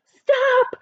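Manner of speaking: high, loud stop; cry of stop. Acted. The speaker begging the grandmas to stop. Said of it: "I tell them".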